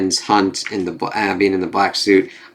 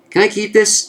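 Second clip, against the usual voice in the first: dazed drugged voice; 12 semitones higher than usual. Acted. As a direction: play her high on Kraven's darts. Drugged Kamala's line.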